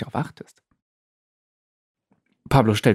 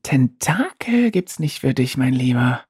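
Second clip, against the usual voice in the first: a hint of a mocking, slow voice; lightly voiced teasing denier; denier's voice; 3 semitones higher, slower than usual. The Denier taunting Pablo, lightly mocking and slow. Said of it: "die Stimme des Verneiners".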